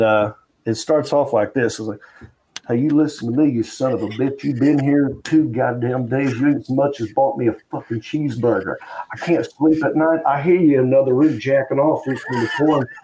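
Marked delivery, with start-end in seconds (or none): 2.7-12.9 half-hearted imitation of a furious roommate; angry voicemail rant. Roommate ranting on a voicemail, a mild mock anger. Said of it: "he went from, like, anger".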